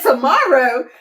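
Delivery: amused, questioning tomorrow; retold disbelief with a laugh in it; surprised echo. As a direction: repeat it back as if caught off guard. She echoes tomorrow, taken aback.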